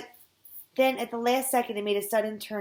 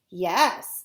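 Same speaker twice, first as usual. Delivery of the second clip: Leslie's voice; 6 dB louder than usual. Acted. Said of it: "still in Leslie's voice".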